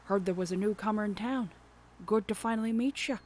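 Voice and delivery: lightly voiced salty fisherman; old fisherman. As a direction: fisherman greets the newcomer, hearty. Voicing Willy.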